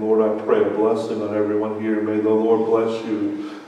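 measured, even blessing cadence; benediction. Acted. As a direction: bless the congregation steadily. Closing benediction.

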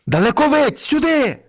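high, urgent summons; ringing cry for help; shepherd's call. A narrator's reading. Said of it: "гукнув вівчар другого".

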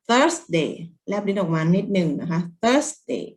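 "Thursday" with tongue out and a puff of air; th sound demo. Shown as a demonstration. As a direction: slowly model the th in "Thursday". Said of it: "ต้องแลบลิ้นออกมานิดนึงแล้วพ่นลมออกมา". (แลบลิ้นพ่นลมตอน Thursday)

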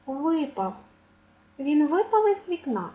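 випав stressed ВИпав, pitched high; first-syllable stress. Shown as a demonstration. Teacher giving a memory trick, stress on first syllable. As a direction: hit ВИ in випав. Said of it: "Як запам'ятати?".

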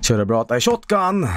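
mock Swedish accent; imitating a Swede. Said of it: "taking the piss out of Swedish accent".

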